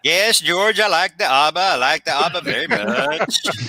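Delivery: hammed-up mock Swedish accent; jokey fake Swedish accent; pretend Swedish accent. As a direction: play a pretend Swede with a silly Swedish accent. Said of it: "Just pretend you're from Sweden".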